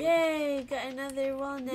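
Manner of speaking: loud, high and fast; cheering. Real, not acted. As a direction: celebrate the find. Cheering at item found.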